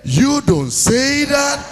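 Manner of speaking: very slow, stretched catchphrase; slow drawled catchphrase. Retold or imitated. Uchenna replying to his friend, very slow. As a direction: drag out every word. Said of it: "he go tell you".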